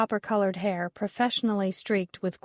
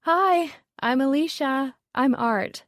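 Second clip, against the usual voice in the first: bright, much higher and louder greeting across the table; calling out; 6 semitones higher, 4 dB louder, slower than usual. A narrator's reading. Woman greeting Molly from down the table, calling out loudly. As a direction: call out a cheery hello over the noise. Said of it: "and called out".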